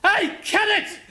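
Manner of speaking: loud high call across a canteen. Retold or imitated. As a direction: hail him from far off. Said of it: "He said".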